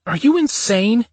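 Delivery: high, loud cry over the wind; yelled. Acted. Woman yelling across the well over the wind, high and loud. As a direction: shout it across the gap, pitch leaping. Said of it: "she yelled".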